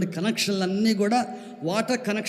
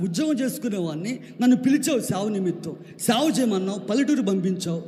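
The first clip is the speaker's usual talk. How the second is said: begging God, rising from a murmur to an anguished plea; retold tearful prayer; 6 semitones higher than usual. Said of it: "ఏడ్చుకుంటూ, కన్నీరు కార్చుకుంటూ".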